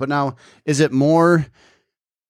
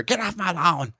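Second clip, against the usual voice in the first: shouting at trespasser; 7 semitones higher, 4 dB quieter than usual. Retold or imitated. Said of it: "Oh, that's much better".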